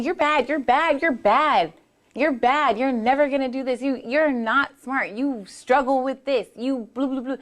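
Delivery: lightly voiced nagging critic, mock scolding; inner critic voice. Monster in your head scolding you, mock nagging. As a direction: taunt like a bullying monster. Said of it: "coming around saying".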